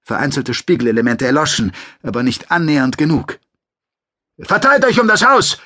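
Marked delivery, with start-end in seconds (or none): 4.4-5.6 much higher, louder command shout; a commander yelling to his squad; shouted order. Acted. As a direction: bark orders over the roaring noise. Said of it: "rief er".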